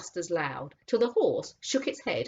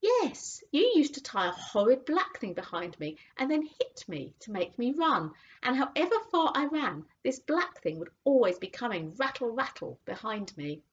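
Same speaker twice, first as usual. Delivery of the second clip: thoughtful horse; 8 semitones higher than usual. A narrator's reading. Horse remembering the cab, thoughtful. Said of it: "said the horse thoughtfully".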